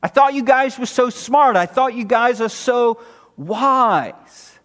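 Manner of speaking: mock disbelief, drawing out the last taunt; sarcastic. Preacher voicing Paul rebuking self-styled wise believers, sarcastically. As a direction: needle them with feigned surprise. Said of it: "now sarcastically he's saying".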